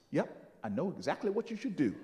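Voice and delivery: low, quick, soft reply; knowing understatement. Retold or imitated. Miss Jones after thinking a second, quietly certain. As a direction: say it quietly, sure of yourself.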